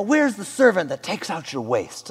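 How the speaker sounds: a hint of royal bafflement, accent made up; old Persian king. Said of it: "they'd open your bathroom and be like".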